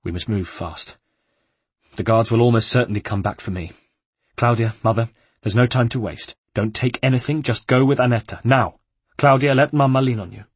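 firm, urgent, commanding orders; urgent commands. Acted. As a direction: take charge, hurry them out. Ezio orders family to flee.

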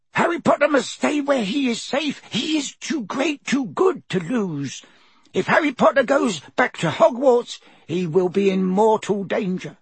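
high squeaky elf voice, humble and anxious; a trembling servant elf pleading; house elf Dobby. A narrator's reading. House elf Dobby explains his lot to Harry, high squeaky elf voice.

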